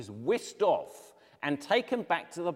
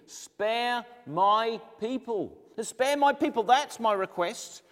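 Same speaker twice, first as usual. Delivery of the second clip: pleading queen; 7 semitones higher, 4 dB louder, slower than usual. Acted. Esther pleading with the king.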